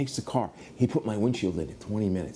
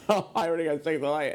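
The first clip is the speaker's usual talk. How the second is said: laughing exasperation; 6 semitones higher than usual. Retold or imitated. Retold exasperation, laughing at himself.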